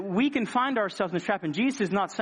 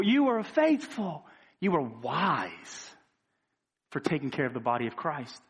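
voicing Jesus.

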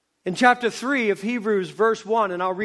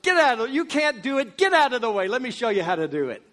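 pushy know-it-all; 2 semitones higher, faster than usual. Retold or imitated. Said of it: "I'm that guy that says".

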